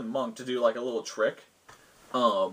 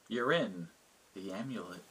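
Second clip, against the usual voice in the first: soft, hushed mystical figure, fading away; hushed, otherworldly reply; deep hushed voice; 4 semitones lower, 7 dB quieter than usual. Acted. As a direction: let it drop away like a mysterious echo. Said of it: "in a deeper, kinda hushed, echoing voice".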